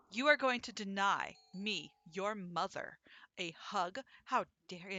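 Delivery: slow, emphatic mock-offended mother; guilt-tripping. Mom refused a hug by her kid, mock guilt-tripping. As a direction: imitate mom laying on the guilt, word by word. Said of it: "guilt you".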